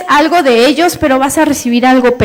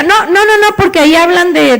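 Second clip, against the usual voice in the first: refusing father; 4 semitones higher than usual. Retold or imitated. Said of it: "father refuses child".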